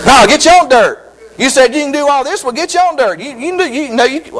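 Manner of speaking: preacher booming God's retort; forceful retort. Acted. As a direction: shout God's comeback at the atheist.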